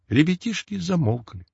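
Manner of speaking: ordinary delivery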